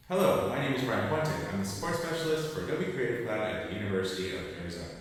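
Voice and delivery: echoing like a big hallway; big drum room reverb. Shown as a demonstration. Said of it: "big drum room".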